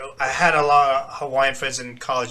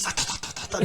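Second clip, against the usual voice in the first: quick "ta-ta" gibberish in imitation; mocking fake-Asian babble; 7 dB quieter, much faster than usual. Imitating racist school kids, mocking babble. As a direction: imitate kids' mocking nonsense syllables. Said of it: "They go like that".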